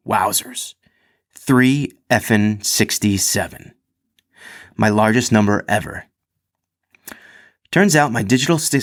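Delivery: animated anecdote read from the page; story read-aloud. A narrator's reading. Reads athlete's written story aloud.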